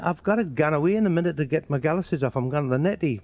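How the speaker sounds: thick Newcastle dialect; Geordie accent. Acted. Geordie excusing himself for the toilet, thick Geordie accent. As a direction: put on a hard-to-follow Geordie. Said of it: "you get the Geordies".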